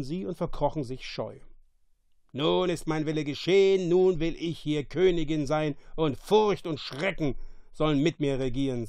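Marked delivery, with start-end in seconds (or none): 2.3-8.9 a louder witch proclaiming; triumphant sorceress voice; evil queen. Acted. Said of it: "sagte die Hexe".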